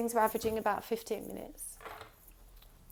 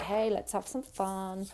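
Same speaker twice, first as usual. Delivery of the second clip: mock casual; slower than usual. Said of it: "gonna come in all casual".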